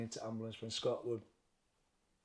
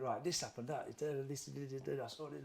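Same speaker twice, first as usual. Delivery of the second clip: gabbled imitation of a quick summary; rushed, skimming retelling; hurried run-through. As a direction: rattle it off to get it over with. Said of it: "I went through it like quick".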